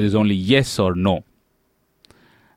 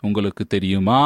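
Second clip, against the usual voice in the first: closed question with "தெரியுமா" rising on its final vowel; inflected question; 2 semitones lower, much faster than usual. Shown as a demonstration. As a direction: lift the ending "maa" of "தெரியுமா". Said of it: "there is an inflection in closed question".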